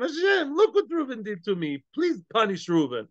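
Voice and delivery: high, plaintive cry of Hashem, then settling; pleading complaint to God. Pretend. A man praying to Hashem against Reuven, high plaintive plea. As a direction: beg God to punish the one who hurt you.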